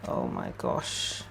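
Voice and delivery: very low, barely audible and slow; hushed awe. Real, not acted. Reader moved by the cards, hushed. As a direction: breathe it out under your breath.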